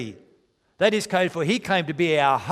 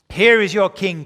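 loud proclamation; 4 semitones higher, 9 dB louder than usual. Acted. Pilate presents Jesus to crowd.

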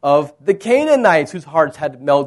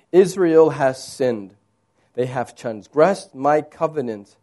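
scripture reading; 3 semitones lower than usual. Acted. Reads God's words from scripture.

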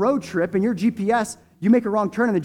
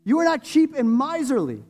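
prayer. Real, not acted. Long prayer before communion.

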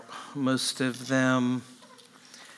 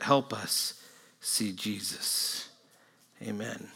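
prayer. Acted. Pastor prays before sermon.

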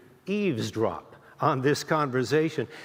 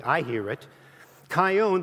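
usual speaking voice

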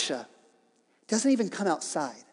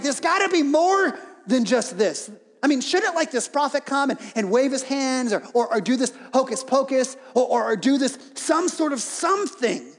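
mock-indignant, raised and laughing; indignant Naaman; 4 semitones higher than usual. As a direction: play the offended general, half joking. Naaman indignant, wants more ceremony.

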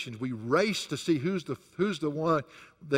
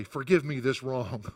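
sarcastic; 2 semitones lower than usual. Acted. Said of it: "he says rather sarcastically".

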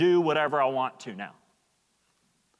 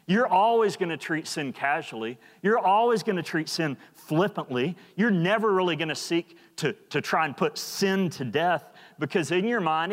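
raised, urgent pulpit voice; impassioned sermon build; fervent preaching; 3 semitones higher than usual. Acted. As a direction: press the point home to the church. Preaching at full force.

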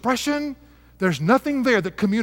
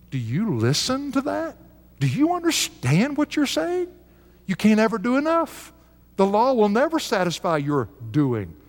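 pleading Paul; 2 semitones higher than usual. Retold or imitated. Preacher voicing Paul pleading.

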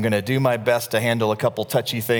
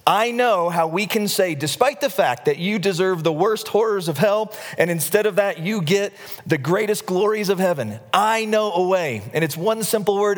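higher, eager little demon pitching his idea; eager demon Leroy; 5 semitones higher than usual. Acted. Demon Leroy pitches his plan to the board, eager and higher. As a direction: bounce the idea up high like an excited imp. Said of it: "Leroy's got an idea, and he says".

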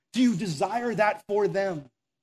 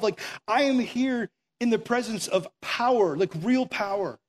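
awed Moses; 4 semitones higher than usual. Retold or imitated. Moses stunned before the burning bush, awed. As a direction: gasp it out like you've just seen real power. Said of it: "he's like".

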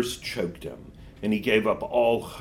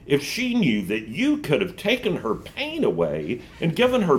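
guilt-tripping witch; 2 semitones higher than usual. Acted. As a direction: lay on the guilt. Witch guilt-trips Diggory.

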